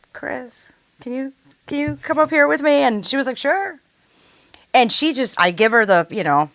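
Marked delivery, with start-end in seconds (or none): 0.1-2.8 retold call to stage. Calling friend up to stage. 3.4-3.8 retold eager reply. Friend's quick reply quoted.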